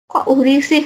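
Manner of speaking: half-amused, confused question; mild mock surprise at "uri"; puzzled surprise. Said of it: "sedikit kayak aneh".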